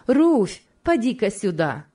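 high, loud summons; calling out. Acted. Hostess calls Ruth over to talk, calling out.

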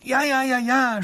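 high, loud thin little voice crying out; thin princess scream; princess shrieking. Acted. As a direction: shriek agreement across the river. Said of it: "schreit die Prinzessin, ihr dünnes Stimmchen".

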